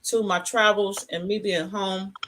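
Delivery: talking with food in mouth; mouth full. Real, not acted. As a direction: speak through a mouthful. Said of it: "I'm talking with food in my mouth".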